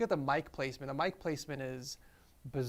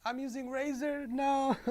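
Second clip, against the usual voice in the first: shocked; 10 semitones higher than usual. Real, not acted. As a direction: react with sudden disbelief. Shocked discovery of old mouse.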